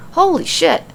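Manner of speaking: high, startled exclamation; shocked. A narrator's reading. Alexa and Nikki hearing of the Fiend's belt, stunned. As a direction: blurt it out in shock. Both react to shocking news.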